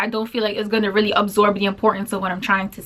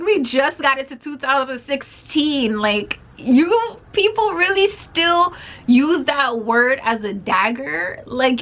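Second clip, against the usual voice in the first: indignant rant; 2 semitones higher, slower than usual. Retold or imitated. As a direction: lecture her like a child, slowly. Indignant retort to racist slur.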